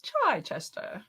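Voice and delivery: Chichester echoed slowly as "CHAAI-chester"; drawn-out echo. Retold or imitated. Co-host copying the other's version, slow echo. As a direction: stretch Chichester out, chai-tea sound first. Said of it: "asking if you can pronounce".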